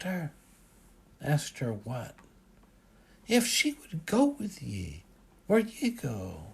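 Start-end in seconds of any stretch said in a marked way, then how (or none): 3.3-6.4 put-on higher, louder old Scottish father; gently pressing Scot's question; father asking about Brenda, in a Scottish lilt.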